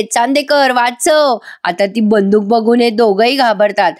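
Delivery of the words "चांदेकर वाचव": mild mock cry for help. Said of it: "मोठ्याने ओरडायला लागते".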